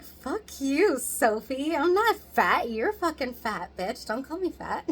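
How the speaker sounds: high, loud mock outburst; hammed-up angry comeback; mock angry retort. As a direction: snap back at her, hammed-up. Retold angry comeback to Sophie.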